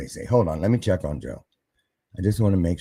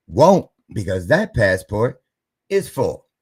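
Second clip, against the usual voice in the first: smug refusal; 5 dB louder than usual. Retold or imitated. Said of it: "higher power said".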